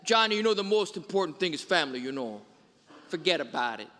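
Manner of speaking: put-on a light mobster New York accent on "family"; imitating a New York Italian family man; Chicago New York accent. Preacher imitating a mob family's New York accent. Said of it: "in their sort of Chicago, New York accent".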